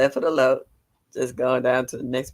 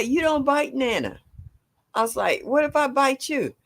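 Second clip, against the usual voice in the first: retold scolding; 11 semitones higher than usual. Scolding biting child, retold.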